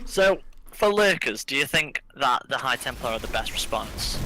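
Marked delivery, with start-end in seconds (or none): 0.1-1.4 laughing. Real, not acted. Laughs after volume fix.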